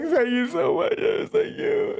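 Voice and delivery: squeaky, over-the-top gratitude; gushing thanks. Retold or imitated. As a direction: gush your thanks in a high mock-polite voice. Thanking airport staff, gushing.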